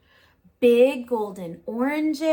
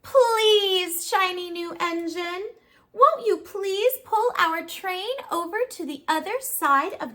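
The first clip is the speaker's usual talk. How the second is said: pleading toys; 4 semitones higher than usual. Acted. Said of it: "toys cried out together".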